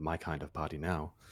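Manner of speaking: quiet low muttering under the breath. During the fight, the character adds a remark muttered under the breath. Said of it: "Just sort of under my breath".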